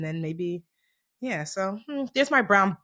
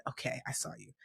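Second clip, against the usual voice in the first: put-on small child admission; 9 semitones lower, 20 dB quieter than usual. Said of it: "She said".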